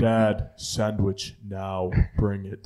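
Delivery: very slow, deliberate orders; demanding baby. Acted. Baby demanding a sandwich from dad, slow and commanding. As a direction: order dad around word by word. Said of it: "like, beastly and just demanding shit".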